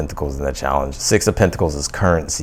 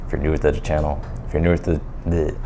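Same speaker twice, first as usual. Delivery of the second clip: talking with gum in mouth; words around a wad of gum; chewing gum. Real, not acted. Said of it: "I've gum in my mouth".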